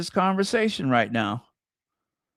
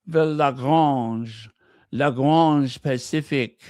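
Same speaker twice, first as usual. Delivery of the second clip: French accent; slower than usual. Shown as a demonstration. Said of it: "trying to say it with a French accent".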